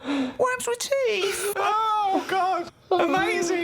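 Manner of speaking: very high, squeezed laughing voice; helpless laughter. Retold or imitated. Host repeating absurd conversation opener, helpless with laughter. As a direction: barely get the words out for laughing. Host cracking up at friend's topic.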